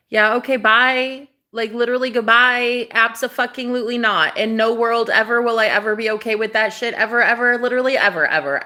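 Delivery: exasperated, insistent no; fed-up dismissal. Retold or imitated. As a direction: shut him down hard, leaning on every ever. Throwing the intruder out.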